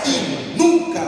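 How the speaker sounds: loud, slow call for the church to repeat. Shown as a demonstration. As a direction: lead the response, loud and slow. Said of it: "Repete assim comigo".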